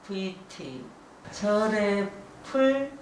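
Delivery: slow, careful reversed reading; backwards speech. Shown as a demonstration. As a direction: read syllables in reverse, slowly. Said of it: "이 단어를 머릿속으로 외워가지고 거꾸로".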